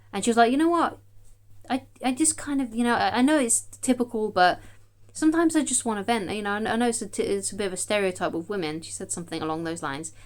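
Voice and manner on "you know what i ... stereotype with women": higher, lightly voiced wife; a hint of the wife; wife explaining. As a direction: explain gently in a raised voice. Wife explaining she wants venting.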